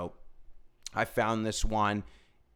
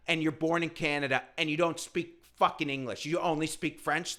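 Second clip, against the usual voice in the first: incredulous rant; 6 semitones higher than usual. Retold or imitated. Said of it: "I'm like".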